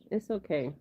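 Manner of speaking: soothing. Real, not acted. Soothing her startled cat.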